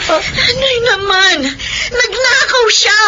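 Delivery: bitter. Acted. Daughter refuses, upset.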